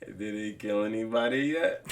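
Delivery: low, lightly imitated questioning voice; Gus's question. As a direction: imitate a boss asking back, unbothered. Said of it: "like, with a question".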